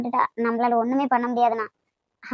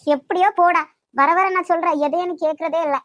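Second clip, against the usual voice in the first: irritated outburst; 2 semitones higher, 4 dB louder than usual. Acted. Brother ignores her advice.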